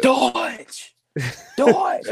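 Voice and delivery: put-on very high, a little girl shouting a name; toddler calling out. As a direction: squeal it like a three-year-old. Toddler calling her dad by name.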